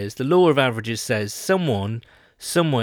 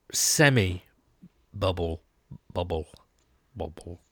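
slow bubbly voice fading to nothing; bubble impression; 6 semitones lower, 5 dB quieter, slower than usual. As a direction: bubble it out slowly, then fade away. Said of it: "That's a great impression of a bubble there".

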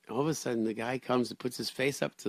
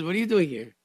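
surprised question; 7 semitones higher, 6 dB louder than usual. Retold or imitated. Rabbi surprised in kitchen.

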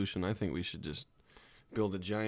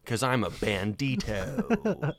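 put-on very slow Spanish accent bandit; slower than usual. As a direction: stretch each word with a Spanish accent. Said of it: "that's my Spanish accent".

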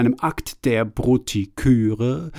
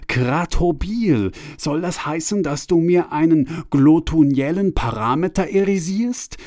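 higher, excited exclamation; exclaiming; 5 semitones higher than usual. Acted. Franz realizes what the deity means, excited high exclamation. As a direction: burst out as a sudden realization dawns. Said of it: "rief er aus".

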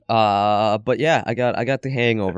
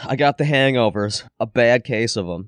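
groggy, hungover voice. Real, not acted. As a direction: talk like the morning after. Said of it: "That's me this episode".

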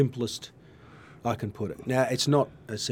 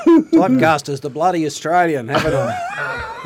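laughing; 8 semitones higher, 11 dB louder than usual. Real, not acted. Joking about being called Australian.

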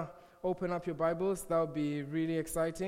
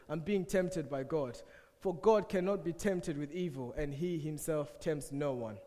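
scripture reading. Acted. Reads scripture aloud.

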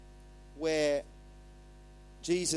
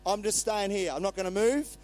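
raised, mildly panicked refusal; mock terrified; 4 semitones higher, 4 dB louder than usual. Disciples flat on their faces before God, mock terrified. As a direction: play a touch of fright, staying put. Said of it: "terrified, not wanting to move".

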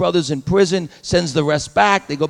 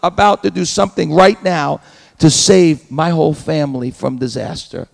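impassioned declaration; 4 semitones lower, 4 dB louder than usual. Pretend. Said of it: "But he said".

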